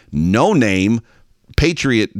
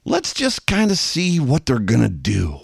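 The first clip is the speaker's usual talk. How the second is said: cautious wait-and-see; 4 semitones higher than usual. Retold or imitated. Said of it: "a wait-and-see kind of posture".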